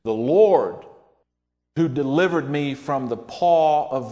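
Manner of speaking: loud, slow triumphant declaration; preacher booming David's confident words slowly; bold proclamation. Retold or imitated. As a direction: proclaim it like a battle cry of faith. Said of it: "David said".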